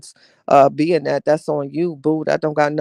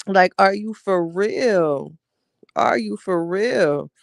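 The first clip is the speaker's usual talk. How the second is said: disbelief; 3 semitones higher, slower than usual. Retold or imitated. Retelling shock at pregnancy news.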